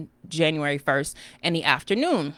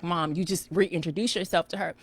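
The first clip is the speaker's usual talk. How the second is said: daughter scolding; 5 dB quieter than usual. Retold or imitated. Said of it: "She was like".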